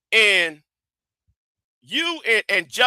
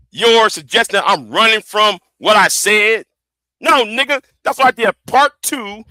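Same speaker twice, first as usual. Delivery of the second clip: heated, rising yell; loud sharp voice; 3 semitones higher, 3 dB louder than usual. Real, not acted. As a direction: jab back hard at the critic. Angry rant at critic.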